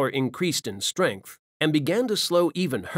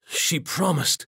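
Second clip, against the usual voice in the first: higher, slowed and drawn out, fading; slower dying lament; 4 semitones higher, slower than usual. Acted. Benares clutching dead Jin's hand, slow fading grief. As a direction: stretch each word as the life leaves him.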